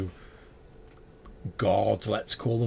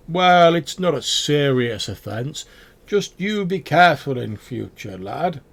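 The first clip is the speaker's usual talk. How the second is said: louder, slow scolding guard; stern guard; 7 semitones higher, 9 dB louder than usual. Acted. Guard letting the goblin off with a slow, loud warning. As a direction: wag a finger at the goblin, slowly. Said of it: "and they're like".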